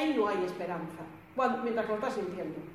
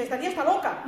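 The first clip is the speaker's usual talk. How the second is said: quoting the attacker through a laugh, a touch higher and louder; laughing mock quote; 5 semitones higher, 5 dB louder, faster than usual. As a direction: laugh while imitating his words. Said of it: "y dice".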